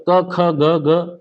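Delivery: "क, ख, ग, घ" sounded separately from the throat; teacher's drill of "क, ख, ग, घ" from the throat; throat sound demo. Shown as a demonstration. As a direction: recite "क, ख, ग, घ" as guttural syllables. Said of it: "अब जैसे कंठ से निकलता क".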